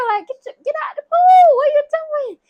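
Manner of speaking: high, loud exasperated shouting; mock yell. Man ordering a girl out of the pool, mock shouting.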